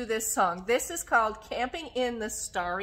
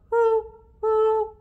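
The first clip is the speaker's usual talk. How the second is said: high, loud owl hoo; owl hoot; 12 semitones higher, 11 dB louder than usual. Acted. Owl sound in rhyme.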